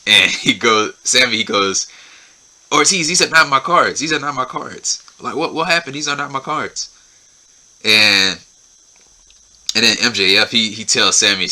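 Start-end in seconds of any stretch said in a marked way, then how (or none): 2.7-6.9 mock shock. Sammy shocked at swapped cards.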